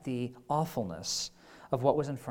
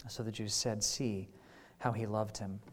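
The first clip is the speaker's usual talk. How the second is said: scripture reading; 3 semitones lower than usual. Acted. Reads the scripture passage.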